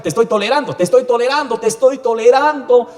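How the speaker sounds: God's voice swelling into a furious threat; building divine warning. Acted. Preacher voicing God's anger at the flock, building to a roar. God voiced rebuking, rising.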